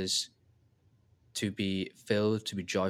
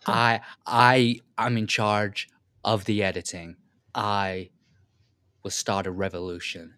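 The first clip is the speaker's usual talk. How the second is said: mock revolutionary leader. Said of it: "it's not even a convincing impression".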